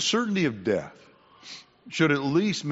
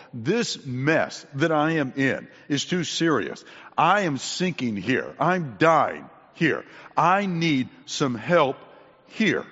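slow, weighted admission of need; voiced desperation; slower than usual. Someone sinking realizes they need God, slow voiced plea. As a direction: spell out the desperation, pausing before the last word.

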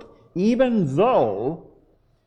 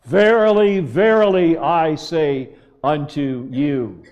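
emphatic preaching; 3 dB louder than usual. Acted. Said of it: "he says to us this morning".

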